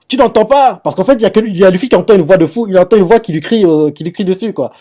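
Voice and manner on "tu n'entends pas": higher, louder mock disbelief; a friend calling out, pitched up in disbelief; surprised friend. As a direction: friend asks Luffy if he hears it, mock surprised. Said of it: "l'ami lui fait".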